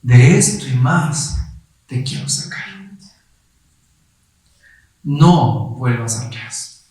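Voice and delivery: slow, grave, gentle divine voice; solemn slow inner voice; voice of the Holy Spirit. Retold or imitated. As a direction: speak slowly as God calling him back. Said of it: "la voz del Espíritu Santo".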